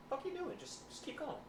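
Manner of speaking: high, sharp coach bark at a struggling athlete; coach yelling. Retold or imitated. Coach barks at an athlete mid-workout, high and sharp. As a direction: imitate the coach snapping him back to work. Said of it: "and this guy goes".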